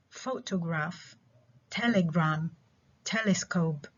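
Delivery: PHOtograph, TELegram, TELescope, one at a time; first-component stress. Shown as a demonstration. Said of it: "الستريس على الكومبوننت الأول".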